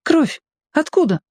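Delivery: put-on high girl's alarmed question; girl spotting blood, alarmed; girl Lorka. A narrator's reading. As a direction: ask sharply, a girl's voice.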